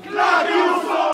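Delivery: slow, high, loud catchphrase. Acted. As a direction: drag out the catchphrase. Punchline catchphrase.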